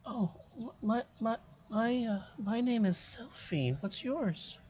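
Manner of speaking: put-on a timid ghost child, hushed and hesitant; too calm creepy doll. GM voices ghost girl Selphine.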